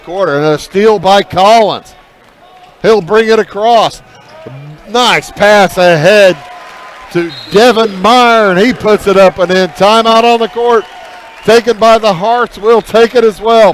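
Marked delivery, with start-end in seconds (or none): 4.9-13.7 excited call. Real, not acted. Fast break score, timeout called.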